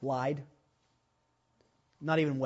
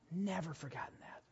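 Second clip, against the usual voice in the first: much softer repeat, almost to himself; soft echo; 3 semitones higher, 10 dB quieter than usual. Real, not acted. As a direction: let it fall away quietly. Repeats the line to let it sink in.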